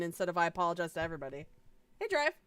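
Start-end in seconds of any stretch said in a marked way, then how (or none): 0.4-1.5 fast. Retold or imitated. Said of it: "change it".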